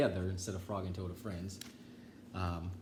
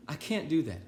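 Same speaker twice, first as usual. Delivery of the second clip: high, loud refusal; shouted no; 6 semitones higher, 5 dB louder than usual. Acted. Toad shouting in story.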